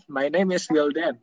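"My name is Wildan" blended, unhurried; native-style connected speech; linked, relaxed. Shown as a demonstration. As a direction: join the words smoothly without rushing. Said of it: "terdengarnya cepat, padahal ngomongnya santai".

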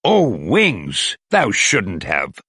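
mildly overdone fake delight; fake excitement. Thor thanking Wasp for unwanted wings, mild fake excitement. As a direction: pretend to love a gift you dislike. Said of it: "Thor said with fake excitement".

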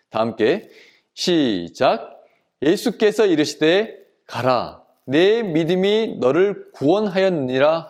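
measured scripture recitation; reading aloud together. Shown as a demonstration. Preacher leading children through the verse, reading aloud. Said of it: "다 함께 큰 목소리로 읽어보겠습니다".

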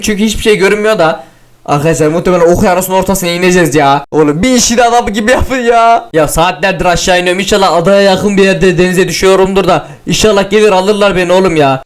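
normal talking voice

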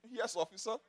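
softly defer to an officer; low-key, humble 'yes sir' delivery; quiet, respectful compliance. Retold or imitated. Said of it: "he quietly respects himself".

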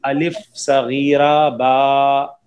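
slow "अलिफ सगीरा बा" with long vowels; Arabic spelling-out drill. Shown as a demonstration. Teacher reading the board Arabic-style, slow drill with held vowels. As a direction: draw out "अलिफ सगीरा बा", holding the final vowel. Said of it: "अरबी इसको तख्ती के हिसाब से पढ़ेंगे".

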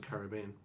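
Caribbean with stress on BE, ka-rib-BEE-an; English pronunciation. Shown as a demonstration. Querying a co-host's word, English-style Caribbean stressed on BE. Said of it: "I thought English people pronounce it".

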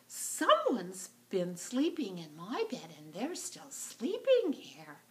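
lightly voiced little bear; a hint of tiny-bear surprise; small wee bear. Wee bear finds someone in bed, small voice. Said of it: "small little wee bear says".

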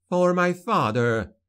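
high, slow, weighted oath with stress on "For"; vengeful daughter. A narrator's reading. Daughter avenging her father on the caliph, high and solemn. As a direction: lean on "For" as the dagger falls. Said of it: "she said".

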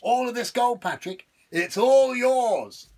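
high, wheedling devil, pleased with himself; sly devil voice. Acted. Devil coaxing Patrick with gold, high and sly. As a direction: dangle the gold like bait.

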